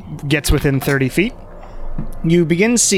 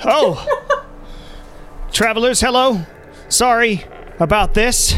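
lightly voiced, higher-pitched apologetic man; a bit higher, politely asking strangers for help; embarrassed townsman; 5 semitones higher than usual. Locked-out man addressing travelers, mildly apologetic. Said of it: "this man looks back and sees you all".

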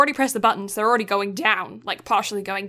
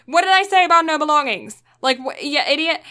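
sharp, louder and higher telling-off; scolding supervisor; 6 semitones higher, 5 dB louder than usual. Retold or imitated. Supervisor scolding the crane driver over the surfboard, mock angry. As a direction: scold him like an annoyed boss. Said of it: "his supervisor goes".

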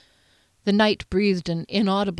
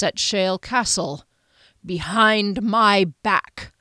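controlled anger; 3 semitones higher than usual. Acted. Duke rebukes his knight.

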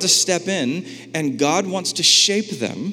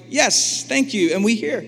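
eager reply; 4 semitones higher than usual. Retold or imitated. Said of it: "They're like".

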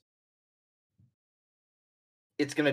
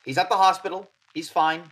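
Odette, grave; 7 semitones higher, 10 dB louder than usual. Acted. Odette telling the professor Charlie's been shot, grave and louder. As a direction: deliver bad news to the professor urgently.

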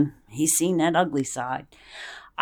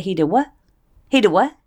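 outraged disbelief; 7 dB louder, much faster than usual. Retold or imitated. Mother hears daughter was hit.

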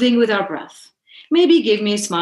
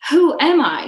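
playful quiz; 8 semitones higher, 4 dB louder than usual. Acted. Playful guessing game with brother.

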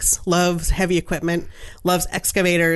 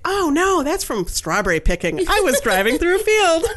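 laughing explanation; 10 semitones higher than usual. Real, not acted. Laughing at the muddy wheels.

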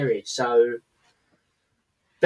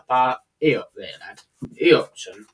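Yorkshire accent. Shown as a demonstration. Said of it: "The Yorkshire's like".

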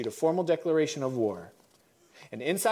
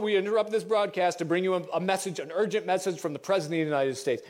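put-on old radio announcer; faster than usual. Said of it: "here you are in your house listening to the radio".

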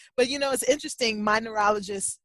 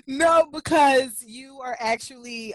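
emotional; 5 semitones higher, 5 dB louder, slower than usual. Real, not acted. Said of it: "I'm trying not to cry".

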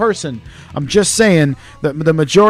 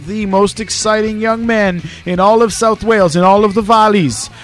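hype introduction; 3 semitones higher than usual. Acted. Hyped introduction of co-host.

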